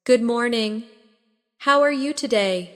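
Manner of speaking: a friendly morning greeting with a smile you can hear; smile in your voice. Shown as a demonstration. Teacher showing learners a greeting with a smile in the voice. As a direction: let the smile lift the words a little. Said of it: "try saying it with a smile in your voice".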